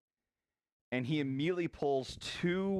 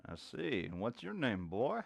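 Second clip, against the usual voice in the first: gruff cowboy NPC; 3 dB quieter than usual. Acted. Old cowboy tells the noisy party to pipe down, lightly voiced.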